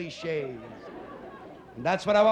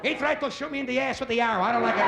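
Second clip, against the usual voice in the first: higher, exasperated complaining mother; 4 semitones higher than usual. Retold or imitated. Mother complaining to her son Eddie, higher exasperated nagging. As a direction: vent to your son like a fed-up mom. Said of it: "your mother looks you in the eye".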